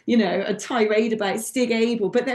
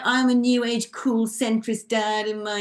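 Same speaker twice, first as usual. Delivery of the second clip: mocking centrist dad; 2 semitones lower than usual. Commentator sending up a trendy presenter she dislikes, mocking centrist dad. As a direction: send up a self-styled cool dad. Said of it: "I hate that sort of, like".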